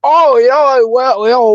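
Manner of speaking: high, loud, teasing dodge of the question; coy put-on voice. Coy evasive answer, voice put on.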